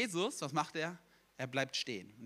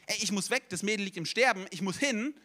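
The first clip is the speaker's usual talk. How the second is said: higher, pressing urgency; lively acted urgency; urgent; 4 semitones higher, 4 dB louder than usual. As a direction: act out someone needing to rush off. Acted hurried inner voice of Jesus.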